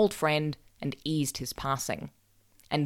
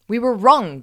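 amazed admission; 7 semitones higher, 10 dB louder than usual. A narrator's reading. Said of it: "they said".

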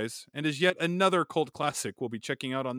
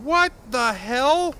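slow, loud and baffled; baffled shout; 11 semitones higher, 8 dB louder, much slower than usual. Acted. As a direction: drag it out in disbelief. Acted sketch, baffled shout.

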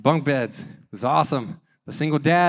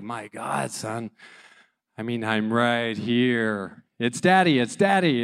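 frustrated dad; 4 dB louder, slower than usual. Retold or imitated. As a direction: act out a worn-down father losing patience. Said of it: "I'm getting frustrated".

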